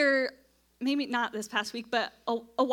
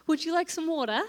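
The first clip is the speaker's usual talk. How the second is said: put-on a light English accent on "water"; lightly put-on English accent for Sam; 3 semitones higher than usual. Wife doing an English accent for her English husband Sam. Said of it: "very good English accent".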